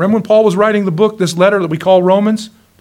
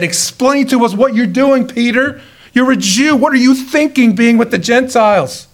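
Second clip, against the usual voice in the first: accusing apostles; 5 semitones higher than usual. Retold or imitated. Apostles questioning Peter.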